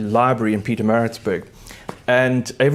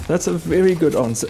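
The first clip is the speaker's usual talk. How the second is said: "That's a very good answer" only a little raised; gentler praise; 4 semitones higher than usual. Real, not acted. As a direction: settle back toward your own voice, still fond. Praise repeated calmer.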